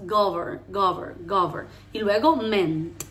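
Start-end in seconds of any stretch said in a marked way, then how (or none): 0.1-1.7 "govern" with small vowels and buzzing V; repeated "govern", short and closed. Shown as a demonstration. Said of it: "Las vocales cerradas". 2.4-3.0 "ment" slowly as a separate syllable; isolated "ment", ending as in president; final T sounded. Shown as a demonstration. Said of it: "suena la T final".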